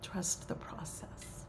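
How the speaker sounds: slow, softened gentle counsel; soft reassurance. Real, not acted. Teacher closes a reflection for the circle, soft reassurance. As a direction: say it slowly and softly, letting it settle.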